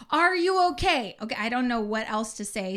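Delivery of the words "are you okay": high, loud retold question; concerned checking. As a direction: imitate a paramedic checking on someone. Retold paramedics checking on her.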